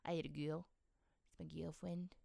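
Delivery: put-on "girl" as "gyul", "girlfriend" as "gyulfwend"; demonstrated kid-speak, no r in "girl"; childhood speech impediment. Shown as a demonstration. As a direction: swap the r's in "girlfriend" for w-like glides. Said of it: "I couldn't say girl".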